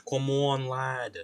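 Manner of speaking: mock British come on lad; British accent. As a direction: urge it in a light British accent. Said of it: "I need to stop with the accents".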